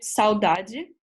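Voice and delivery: "saudade" modelled clearly, ending in a "jee" sound; Portuguese pronunciation. Shown as a demonstration. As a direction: present "saudade" carefully as a new word. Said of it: "you say it".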